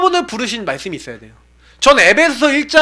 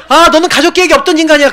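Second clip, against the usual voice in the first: higher, quick mock reproach; retold hurtful remark; 8 semitones higher, 4 dB louder, faster than usual. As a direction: blurt it out as the parent's careless verdict. Retells parent's remark that hurt him.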